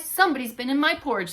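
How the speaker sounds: gruff Papa Bear. Acted. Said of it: "said Papa Bear".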